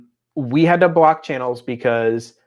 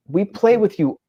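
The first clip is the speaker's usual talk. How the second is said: exasperated parent retort. Retold or imitated. Parents' exasperated reply to child.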